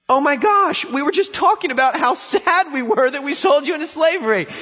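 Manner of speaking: high, loud, gushing fan voice. Pretend. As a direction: overdo the adoring fans, way up. Brothers gushing over found Joseph.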